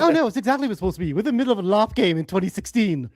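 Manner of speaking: fast Stewie Griffin prattle; lightly voiced cartoon baby Stewie; Stewie impression. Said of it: "That's a really good Stewie".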